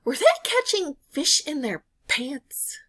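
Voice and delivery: whispered, scandalised question to a friend; hushed whisper. Retold or imitated. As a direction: lean in and whisper it like a secret. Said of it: "she goes".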